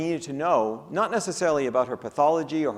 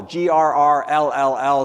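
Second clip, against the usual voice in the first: growl; 3 semitones lower, 6 dB louder than usual. Retold or imitated. Spelling out a growling girl energy.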